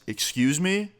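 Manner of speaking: a high, incredulous excuse me; playing the big guy turning on them, rising high; mock challenge. Jacked guy turning on the narrator's friend, high challenging disbelief. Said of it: "and he goes".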